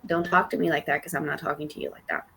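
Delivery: restrained retort; held-in anger. Retold or imitated. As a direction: keep the anger held back, speak quickly and softly. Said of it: "held my anger there".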